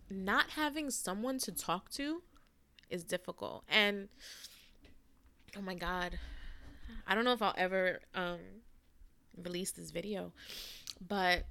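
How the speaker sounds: quiet, halting, on the verge of tears; real welling-up, pause between phrases; soft and choked up; getting emotional. Real, not acted. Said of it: "I'm getting emotional".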